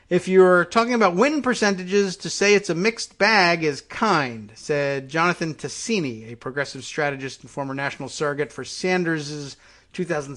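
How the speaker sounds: reading an article out with emphasis; news read-aloud. Real, not acted.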